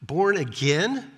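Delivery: stunned rising what, slow born again; genuinely thrown, questioning; bewildered, not sarcastic. Retold or imitated. Nicodemus hearing born again, genuinely bewildered. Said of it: "I don't think he's being sarcastic here".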